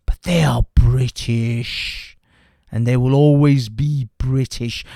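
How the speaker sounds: very slow, each word spaced out; slow emphatic. Real, not acted. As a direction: spell it out word by word. Insisting point to opponents.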